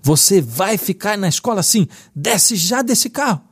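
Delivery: high-pitched, re-enacted scolding; forceful father's order. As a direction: act out a dad forcing himself to be firm. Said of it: "Tirei forças da onde não tinha e disse".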